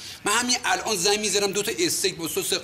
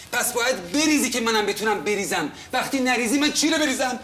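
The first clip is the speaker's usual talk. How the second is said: rising irritation; 4 semitones higher than usual. Acted. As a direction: build from annoyed to a near shout. Tenant quarrel over unpaid money.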